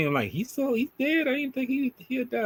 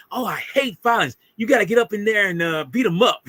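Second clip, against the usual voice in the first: imitated Beverly; 7 semitones higher, 4 dB louder than usual. Quoting Beverly urging a fight.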